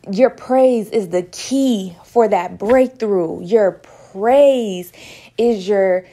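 rising revival preaching, building in force. Acted. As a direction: drive home the message like a pulpit sermon. Preaching praise to the viewers.

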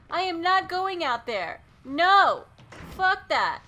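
ordinary talk, nothing marked

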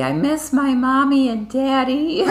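put-on high, teary little-girl wail; child crying. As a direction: imitate a crying toddler missing her parents. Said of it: "saying really loudly".

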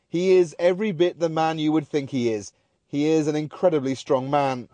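normal talking voice

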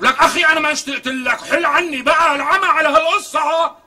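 irritated. Acted. Shehadeh brushes off unwanted visitor.

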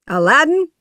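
high, rising happy call. A narrator's reading. Genie greets Aladdin after the victory, happily. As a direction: call the name with delight. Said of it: "the genie said happily".

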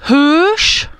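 Hős with a breathy H at the start. Shown as a demonstration. Teacher models Hős with H. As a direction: puff the H in Hős. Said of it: "avec un H".

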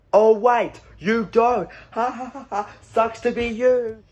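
mock realisation, then a fake laugh; gloating taunt. Bystander to driver without enough power, gloating taunt. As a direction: rub it in with a ha-ha.

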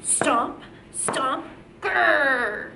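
chanted stomps, then a growl; dinosaur stomp and growl. Shown as a demonstration. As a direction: stomp it out, end in a playful grrr. Teacher models stomps and dinosaur growl.

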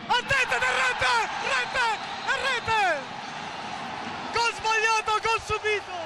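breathless italian goal commentary. Real, not acted. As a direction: erupt as the ball goes in. Goal scored, commentator erupts.

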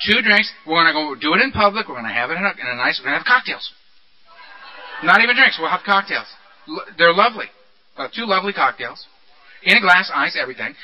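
lightly acted tempter's pitch; coaxing beast. The beast talks Earl into drinks, lightly wheedling. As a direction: talk him gently past his objection, playing it down. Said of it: "beast whispering in my ear".

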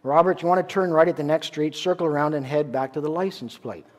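calm instructor. Retold or imitated. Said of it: "the instructor says calmly".

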